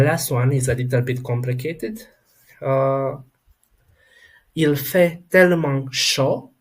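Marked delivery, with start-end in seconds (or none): 4.6-6.5 "chaud" ending on an O sound, silent final consonant; French teacher's demo, "au" in "chaud" said as O. Shown as a demonstration. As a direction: model "il fait tellement chaud" a bit higher. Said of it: "we will have an O sound".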